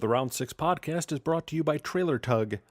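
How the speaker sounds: upbeat sponsor read, slowing at the web address. Acted. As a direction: read it like a podcast ad spot. Host reads sponsor ad.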